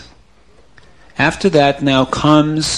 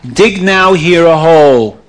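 police chief's order; 2 semitones higher, 7 dB louder than usual. Acted. Police chief orders men to dig.

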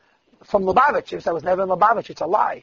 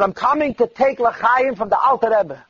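put-on bold old chassid; 5 semitones higher, 3 dB louder, slower than usual. Chassid approaches Rebbe with cup.

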